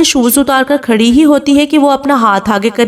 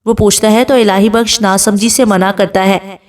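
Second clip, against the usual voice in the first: ordinary delivery, nothing marked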